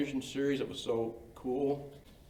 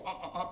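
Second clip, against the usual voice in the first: stooge grunts; 7 semitones higher, 7 dB quieter than usual. Retold or imitated. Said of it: "and then the guy go".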